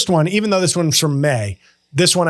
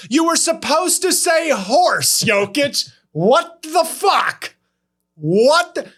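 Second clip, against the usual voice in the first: mock exasperation; 9 semitones higher, slower than usual. Mock outrage at Jokic.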